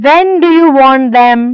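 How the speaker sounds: put-on lightly German-accented question; careful question in a mild German accent. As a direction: ask with a touch of German accent. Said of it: "This is again a German accent".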